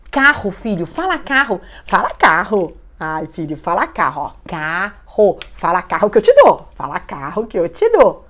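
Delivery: mãe insistente forçando a fala; cobrança com palavras repetidas e ênfase forte; pressionando a criança. Acted. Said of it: "Que tá forçando a criança". (pressionando a criança, com insistência)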